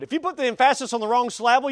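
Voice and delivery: "emphasis" as em-FASS-is, "syllable" as suh-LAB-ul; wrong-syllable stress. Shown as a demonstration. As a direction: shift "emphasis" and "syllable" onto their second syllables.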